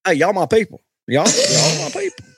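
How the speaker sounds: rising, gleeful mock greeting; imitating a buddy greeting his people; mock Jeffrey in Ireland. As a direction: ham up a proud homecoming hello. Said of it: "walking through Ireland saying".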